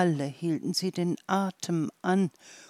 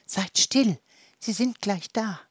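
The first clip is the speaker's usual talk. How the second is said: excited flea hushing; 4 semitones higher, 3 dB louder than usual. Acted. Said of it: "rief der Floh aufgeregt".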